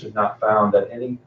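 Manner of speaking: muffled behind a mask; speaking through a cloth mask; through a face mask. Real, not acted. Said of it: "I hope you can hear me with the mask on".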